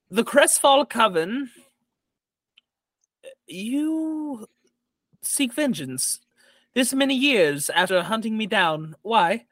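measured, stately hostess with long pauses; lightly voiced noblewoman, lifting as she confronts a foe; lady of the house. Jorhana confronting the Crestfall Coven hag, stately lady's voice. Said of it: "and she says".

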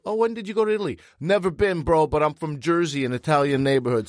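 a hint of a cocky Jersey bro; Jersey guy impression. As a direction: brag like a Jersey guy who has never left home. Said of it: "not just a guy who's like".

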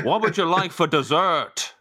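slow, badly attempted Belfast accent. Host put on the spot by the guest, clumsy Belfast accent. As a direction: stretch it out in a dubious Belfast accent.

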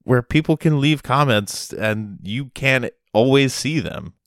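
high, anxious Lyft driver voice; mock-nervous driver, lifted pitch; worried Lyft driver. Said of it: "he was like".

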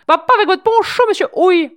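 put-on high, loud posh French accent; bourgeois accent. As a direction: ham up an aristocratic bourgeois accent. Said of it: "accent bourgeois".

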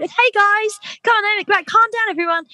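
high, loud call to a rowdy room; shouting over crowd. Retold or imitated. Host shouting over a rowdy Christmas audience, loud. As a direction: bellow for order over the noise. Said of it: "trying to shout over".

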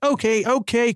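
reassuring. A narrator's reading. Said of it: "Carl reassured her".

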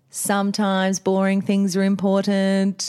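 wobbly fan-chopped voice like Bluey's mum. Retold or imitated. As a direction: speak as if into a spinning fan. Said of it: "as if you're talking into a fan".

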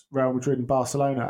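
ordinary delivery

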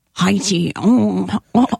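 mock Russian accent; badly faked Russian-accented mumbling. Shown as a demonstration. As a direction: try out a rough Russian impression. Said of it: "it's more like Russian".

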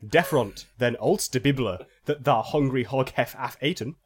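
solemn fake-archaic scripture reading; mock scripture reading. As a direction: read it like garbled holy scripture. Reads fake phonetic bible.

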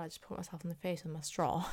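talking through laughter; laughing. Real, not acted. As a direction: giggle at yourself, fast. Laughs at own clumsiness.

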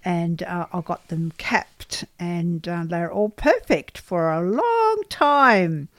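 lisping. Real, not acted. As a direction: lisp from a missing tooth. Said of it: "why I am lisping".

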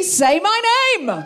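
slow, high title said with a laugh. Real, not acted. Host naming her own movie live, laughing. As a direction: say your own film's name with a proud giggle.

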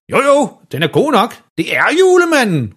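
meget høj, ivrig; råber. A narrator's reading. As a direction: overbevis hele pladsen. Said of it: "råber far". (falsk begejstret råb)

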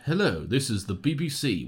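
crisp RP BBC announcer hello; RP accent. Shown as a demonstration. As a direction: put on a Received Pronunciation newsreader voice. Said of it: "R P's like".

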